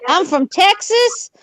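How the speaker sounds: slow, drawn-out Texas twang; Texas accent. Pretend. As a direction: stretch it out like a Texan. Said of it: "listen to Carol's voice".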